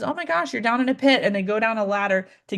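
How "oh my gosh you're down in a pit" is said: empathy. Shown as a demonstration. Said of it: "Empathy is somebody walks by and says".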